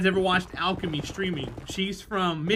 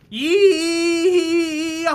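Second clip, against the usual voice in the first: long, high, loud southern whoop; stretched-out mock southern holler; hammed-up cowboy yell; 11 semitones higher, 10 dB louder than usual. Hamming up southern, shouted.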